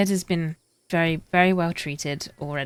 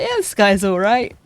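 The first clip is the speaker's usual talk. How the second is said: mock Liverpool accent; 3 semitones higher, 6 dB louder than usual. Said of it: "I'm like".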